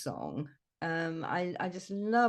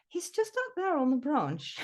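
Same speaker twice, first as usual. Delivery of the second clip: higher, polite imitation of a tactful friend; tactful pointing out; 7 semitones higher than usual. Friend tactfully showing the bloke the robin, polite. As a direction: point it out gently, pitched up. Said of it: "being a bit more tactful than me".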